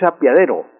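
"apiadero" said with I instead of E; a-pia-de-ro, the E turned into I; incorrect apiadero. Shown as a demonstration. Language expert naming the second word, "apiadero" mispronounced with I. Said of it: "pero es incorrecto".

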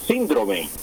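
"síndrome" stressed on the first syllable, SÍN-dro-me. Shown as a demonstration. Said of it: "síndrome con tilde en la I".

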